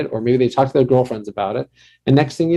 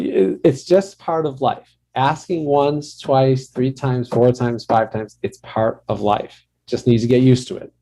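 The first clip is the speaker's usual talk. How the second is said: imitating her father; slower than usual. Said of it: "He was like".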